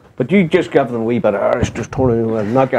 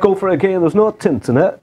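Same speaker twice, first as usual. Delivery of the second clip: Yorkshire accent; 6 semitones higher than usual. Shown as a demonstration. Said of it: "I can do Yorkshire".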